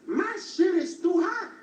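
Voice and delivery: loud, high gruff papa bear complaint. Acted. Comedian voicing papa bear, loud and high. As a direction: bark it like an angry papa bear.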